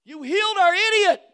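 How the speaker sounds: indignant voice, a touch high; indignant mock complaint. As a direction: play the offended townsfolk. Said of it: "they got mad at Jesus".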